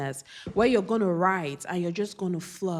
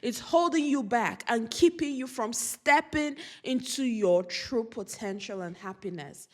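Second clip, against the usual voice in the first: getting emotional; 5 semitones higher than usual. Real, not acted. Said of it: "I don't know why I'm getting emotional".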